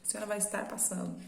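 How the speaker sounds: fast scripted call-center patter; mock telemarketer talking to a lady customer; telemarketing voice. Shown as a demonstration. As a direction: rattle it off quickly like a phone operator reading a script. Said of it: "bem cara de telemarketing".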